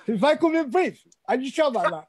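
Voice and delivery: tickled, through laughter; laughing. Real, not acted. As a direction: laugh as you question the request. Amused reply to being brief.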